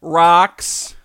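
put-on kid voice. Voicing kids at play.

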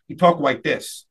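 "like" said as "wike" in "talked like this"; speech impediment. Retold or imitated. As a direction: say "talked like this" with the L softened to W. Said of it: "he had an issue talking".

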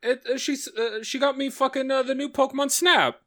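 high-pitched, overwhelmed gasp of surprise; real astonishment, voice lifted high; stunned delight. Real, not acted. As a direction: stammer it out, floored by the gift. Real reaction to opening a gift.

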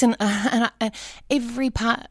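getting emotional. Real, not acted. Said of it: "I'm getting emotional".

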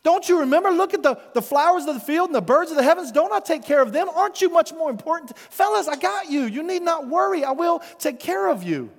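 Jesus pressing his disciples to remember; pleading Jesus. Acted. Repeated question, louder take.

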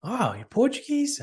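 high breathless whispered mockery; hammed-up busybody whisper; mock stranger. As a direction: mimic the nosy guy in a high whisper. Mocking the stranger.

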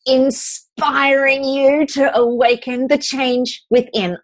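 bright, eager podcast opener; excited. Real, not acted. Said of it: "Did I sound a bit excited then?".

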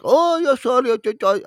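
high-pitched mock Middle Eastern accent; hammed-up Middle Eastern accent; imitated Middle Eastern accent. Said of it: "a Middle Eastern accent".

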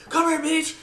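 high-pitched retold command; mock drill-instructor yell. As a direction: imitate an instructor pouncing on a recruit.

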